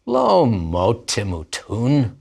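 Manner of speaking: slow, emphatic "lo mot timutun"; the serpent coaxing, slowly; snake's reassurance. Acted. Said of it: "Vayomer hanachash el ha'isha".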